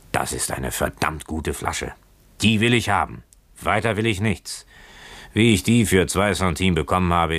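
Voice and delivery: a hint of a drunken sailor; drunken boatswain. Drunk boatswain refusing to give up the bottle, lightly drunken. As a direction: claim it with mild tipsy stubbornness. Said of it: "wie die eines gänzlich Betrunkenen klang".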